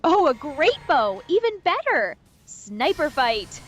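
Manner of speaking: thrilled, loud and high; excited. Real, not acted. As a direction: cheer it out. AI excited about the bow.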